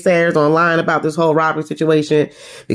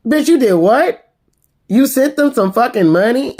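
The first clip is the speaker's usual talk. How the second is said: mock Erica; 6 semitones higher than usual. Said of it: "Erica was looking like".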